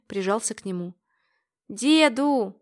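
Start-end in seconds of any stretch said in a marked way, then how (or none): 1.7-2.5 высоко, по-детски ласково; позвать деда как малыш; детский голос. A narrator's reading. Внук прижимается к деду. (внук ласково зовёт деда)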